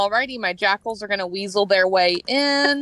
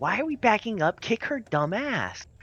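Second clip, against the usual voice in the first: slow, loud stage whisper; 6 dB quieter than usual. Speaking in character during a fight, urging an ally: loud whisper. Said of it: "I will loudly whisper".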